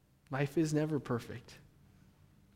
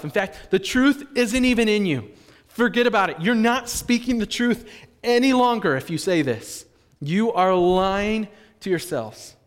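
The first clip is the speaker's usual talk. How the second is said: loud, raised preacher's challenge; emphatic rebuke; 7 semitones higher, 8 dB louder than usual. Acted. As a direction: confront them head-on as John, voice high and loud. Voices John attacking the lie.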